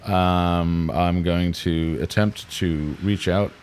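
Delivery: slow, deliberate host voice; drawn-out mock ghost hunter intro; copying the ghost hunter. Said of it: "I'm gonna copy his shit exactly".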